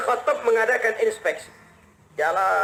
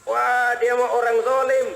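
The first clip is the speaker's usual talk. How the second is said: higher, drawn-out indignant grumbling; scornful complaint; 4 semitones higher than usual. Retold or imitated. Poor mother tells Umar about the caliph, scornful complaint. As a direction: lament it with mock outrage.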